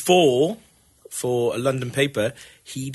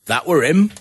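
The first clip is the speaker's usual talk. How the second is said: put-on northern accent; 4 semitones higher, 4 dB louder than usual. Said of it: "when a northern person says".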